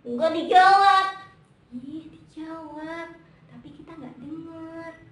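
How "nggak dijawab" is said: drawn-out, loud singsong puppet greeting; Momon. Pretend. Momon greets the children at home, loud singsong puppet voice.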